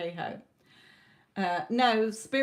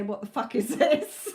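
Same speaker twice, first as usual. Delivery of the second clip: laughing mock outburst; 3 semitones higher, 5 dB louder than usual. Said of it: "stand there and say".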